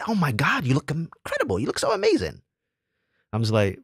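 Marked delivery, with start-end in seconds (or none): 0.1-2.4 high gushing imitation of the woman; mock gushing woman. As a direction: gush over his look in a much higher voice. Mimics the woman gushing over his hair.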